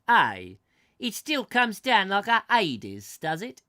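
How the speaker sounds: high, loud, drawn-out centurion voice; Roman centurion. Acted. Roman soldier asks about the rain, loud character voice. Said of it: "So he's Italian".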